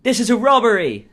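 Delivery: put-on loud, high-pitched robber with an English accent. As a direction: shout it in a hammed-up English accent. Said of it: "His English".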